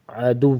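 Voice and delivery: عدو with a hard doubled w; stressed waw. Shown as a demonstration. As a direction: press the doubled w of عدو firmly. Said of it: "واو کو سختی سے پڑھیں گے". (عدو میں واو سختی سے)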